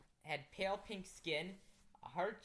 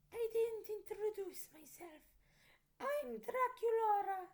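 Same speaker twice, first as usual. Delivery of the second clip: put-on Transylvanian accent; 5 dB louder than usual. Vampire girl calms the narrator in a Transylvanian accent. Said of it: "the vampire girl said".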